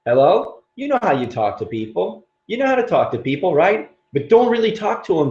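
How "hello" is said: phone hello. Shown as a demonstration. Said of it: "The phone calls go like this".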